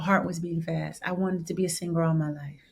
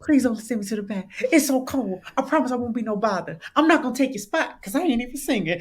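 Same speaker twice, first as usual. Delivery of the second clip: a touch higher, fast pleading; mock pleading; 5 semitones higher, 5 dB louder, faster than usual. Begging the door ladies not to send her back, fast mock plea. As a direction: beg quickly to be let in.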